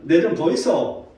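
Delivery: lightly mocked Gyeongsang drawl on 좀; playful Gyeongsang impression; Gyeongsang dialect. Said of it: "이 경상도 말은". (살짝 흉내 낸 경상도 말투)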